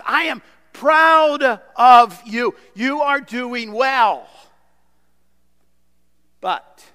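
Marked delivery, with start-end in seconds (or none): 0.0-4.3 slow, louder, affirming mentor's voice; proud encouragement. Retold or imitated. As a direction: speak it like a proud parent praising a child. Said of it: "Hear something like this".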